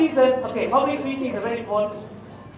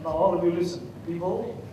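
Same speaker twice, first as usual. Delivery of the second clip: pompous expert; 3 semitones lower, 4 dB quieter than usual. Retold or imitated. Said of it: "Not like, you know, who I am".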